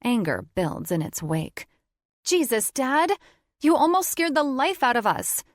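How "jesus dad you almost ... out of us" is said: high, loud angry scolding; accusing. Acted. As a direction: scold him for the fright. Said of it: "I accuse".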